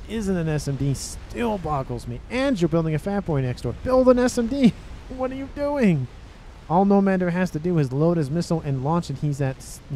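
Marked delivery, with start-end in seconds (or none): 3.8-4.7 high and loud, yelling at the screen; half-laughing yell of disbelief; exasperated shout. Real, not acted. Caster yelling advice at player. 4.9-6.1 high, laughing in disbelief; incredulous laughing question. Real, not acted.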